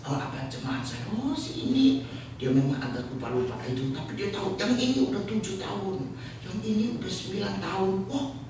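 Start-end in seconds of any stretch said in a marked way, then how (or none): 1.1-8.1 much higher, bright recalling of each member's years; imitating the Korean pastor. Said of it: "dia bisa kenal". 8.1-8.4 mock amazement. Pastor's own amazed reaction retold.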